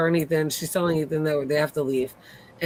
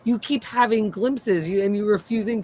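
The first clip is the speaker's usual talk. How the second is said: indignant, higher-pitched telling-off; retold mad rant; 5 semitones higher than usual. Viewer scolding Tabitha over her claimed memories, mad. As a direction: replay your outrage at her, pitch climbing. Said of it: "I was so mad".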